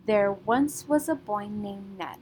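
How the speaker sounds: put-on three light beats on once, boy, Ned; stressed beats. Shown as a demonstration. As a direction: read the line leaning gently on once, boy and Ned. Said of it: "a single syllable that we are stressing".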